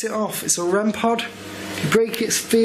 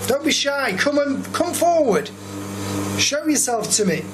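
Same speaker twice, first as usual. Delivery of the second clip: coaxing call; 5 semitones higher than usual. Real, not acted. Coaxing a ghost to appear.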